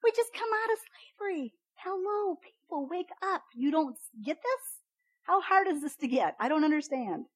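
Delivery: high, incredulous exasperation; exasperated Moses. Retold or imitated. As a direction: play Moses throwing up his hands at the people. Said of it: "I'd be like".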